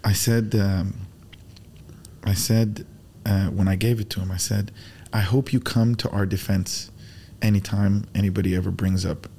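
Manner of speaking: low, subdued, moved by the memory; getting emotional. Real, not acted. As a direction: hold back real emotion, speaking low with pauses. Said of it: "I get emotional thinking about this".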